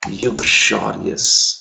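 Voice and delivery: uxorious drawn out very slowly, uk-sho-ri-us; slow pronunciation. Shown as a demonstration. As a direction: model uxorious syllable by syllable. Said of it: "यू एक्स O R I O U S". (uxorious को बहुत धीरे, उक-शो-रि-अस)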